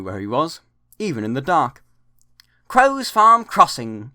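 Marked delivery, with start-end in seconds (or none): 2.7-4.1 higher, louder and slow, cheerfully announcing the stop; happy chuffing call. A narrator's reading. Engine nearing home at night, happy call. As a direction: sing out the crossing name like a contented engine. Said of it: "he chunted happily".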